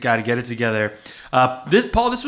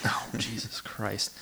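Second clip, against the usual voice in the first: slow, unvoiced groan of disbelief; whispered exasperation; exasperated whisper; 5 semitones lower, 12 dB quieter, slower than usual. Real, not acted. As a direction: whisper it in despair. Exasperated aside.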